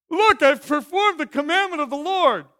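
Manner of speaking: high, loud proud claim; boastful Saul. Acted. Saul boasting to Samuel he obeyed, high and loud. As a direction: brag that you obeyed.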